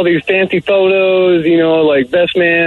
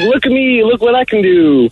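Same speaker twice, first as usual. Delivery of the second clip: higher, mocking show-off voice; show-off bride; 5 semitones higher than usual. Caller imitating his brother's bride, mocking show-off. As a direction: lightly mimic a woman flaunting herself. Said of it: "she was one of those, like".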